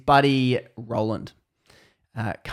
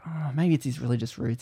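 whispered aside; 6 dB quieter than usual. Retold or imitated. Roger's hesitant private thought.

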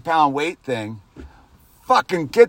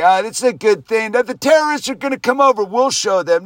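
lightly mimicked bravado, higher-pitched; quicker, higher mocking imitation of big talk; mock gun owner; 6 semitones higher, faster than usual. Ranting speaker parrots gun owners boasting about terrorists, mildly mocking. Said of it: "not gonna get me to fucking say".

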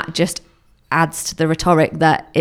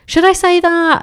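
imitating a worried question; 13 semitones higher, 3 dB louder than usual. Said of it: "you will often say to me".

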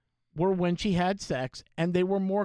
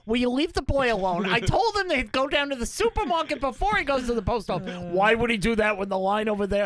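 loud, high, laughing shout; arguing parent; 5 semitones higher, 4 dB louder than usual. Pretend. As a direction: yell it like a lost, frantic parent. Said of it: "download both your parents".

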